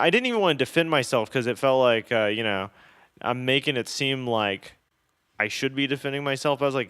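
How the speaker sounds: ordinary delivery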